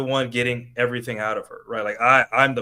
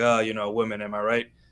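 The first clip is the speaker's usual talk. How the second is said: put-on mock laughter of a man, much slower; 3 dB quieter than usual. Telling a story about a man who fixed a woman's tire, acting out his laughing. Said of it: "And he's laughing like".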